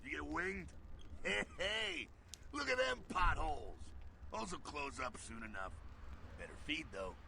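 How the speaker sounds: high, brash barrio vampire mentor, gruff and amused; streetwise vampire mentor. Acted. Mentor vampire sizing up the wounded fledgling, brash and high. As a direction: swagger through it like an old street vampire.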